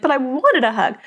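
a hint of a hurt little girl; daughter's complaint. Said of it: "then she'd be like".

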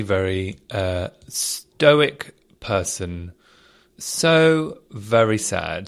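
slow, sorrowful and subdued; sadly, with pauses. Real, not acted. Mourning the Queen's death.

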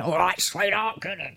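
a hint of a posh teacher. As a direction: lightly voice a posh lady. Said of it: "her posh voice went".

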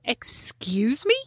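slow, drawn-out "excuse me"; retold indignant retort to Don. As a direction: stretch it out, offended.

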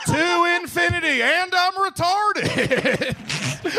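high, slow talking toy; Buzz toy voice. Pretend. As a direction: play a toy catchphrase. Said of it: "like Woody from Toy Story".

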